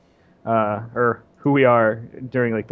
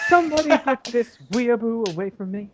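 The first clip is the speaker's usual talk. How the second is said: mock shout; 8 semitones higher than usual. Mock outburst at weeaboo remark.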